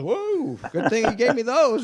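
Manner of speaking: high, laughing startled whoa; a laughing, high-pitched mock of a startled old racer; startled and amused retelling; A J's reaction. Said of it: "And he goes".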